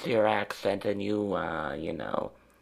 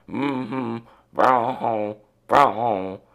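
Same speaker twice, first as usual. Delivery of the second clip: imitating a friend; 2 semitones higher, 6 dB louder, much slower than usual. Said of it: "So she says".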